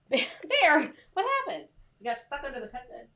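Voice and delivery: high sing-song pet voice. Real, not acted. Owner calling her stuck dog in a high coo. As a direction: coo at the dog, pitch jumping up.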